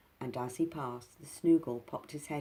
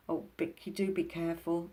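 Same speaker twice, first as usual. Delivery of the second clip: half afraid; 4 semitones higher than usual. Acted. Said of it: "half afraid".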